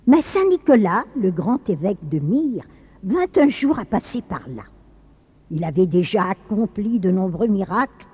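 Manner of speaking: dramatic, lilting storyteller with measured pauses; story narration. A narrator's reading. Narrator telling of Saint Nicolas and the butcher, storytelling. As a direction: tell it like a grave old legend.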